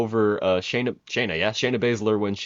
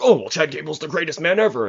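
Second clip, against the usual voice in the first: mock commentators; 7 semitones higher, 4 dB louder than usual. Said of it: "like, them being like".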